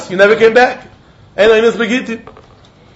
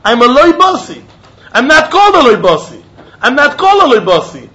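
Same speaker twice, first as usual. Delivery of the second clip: mock insistent claim; 4 semitones higher, 4 dB louder than usual. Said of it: "he had to say".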